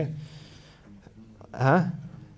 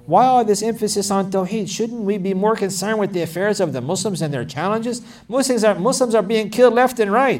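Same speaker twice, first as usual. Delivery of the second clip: imitating critics, raised pitch and pointed questioning; indignant objectors; 5 semitones higher, 3 dB louder than usual. Critics questioning the focus on Tawheed, indignant challenge. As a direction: challenge them as an exasperated objector would. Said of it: "people questioning this focus, saying".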